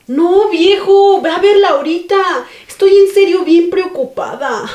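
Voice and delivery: wife pressing her hungry husband to check on their daughter, urgent and pleading. Acted. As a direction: drag out the no, begging him to go now. Worried wife urges husband.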